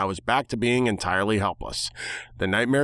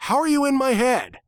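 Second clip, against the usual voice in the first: very high, loud, held-out cry; squeaky excited question; 4 dB louder than usual. Acted. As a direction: narrator asks the bird voice, very high and loud.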